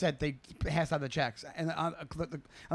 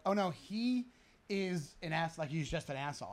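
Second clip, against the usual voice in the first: confiding coworker; 6 dB quieter than usual. Retold or imitated. Coworker quietly explains the waiter is a jerk. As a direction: hush it like gossip.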